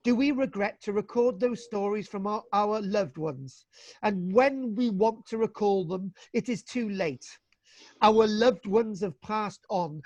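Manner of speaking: slow, measured reading aloud of his own prose; solemn book reading at a slow pace. Acted. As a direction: read it slowly, like a heartfelt passage. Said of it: "read directly out of my own book".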